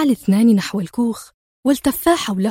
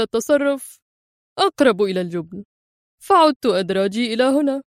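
lightly careless, offhand; nonchalant. Acted. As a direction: shrug it off in words. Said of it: "هز أدهم كتفيه في استهتار".

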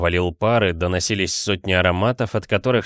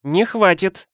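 angry retort; 11 semitones higher, slower than usual. A narrator's reading. Wife snapping at her lazy husband, angry. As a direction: cut him off sharply. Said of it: "сердито сказала женщина".

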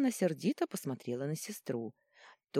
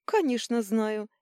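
giggling; 6 semitones higher, 5 dB louder, slower than usual. A narrator's reading. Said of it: "хихикнул Божок".

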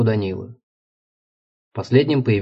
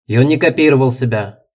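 put-on louder, lecturing a tiresome boy; raised voice; 3 semitones higher, 5 dB louder than usual. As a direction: raise your voice, explaining the obvious. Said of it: "повысил голос Кейн".

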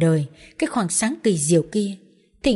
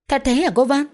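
put-on amazed little girl; 5 semitones higher than usual. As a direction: gasp it out like a child hearing a fairy tale. Child character amazed.

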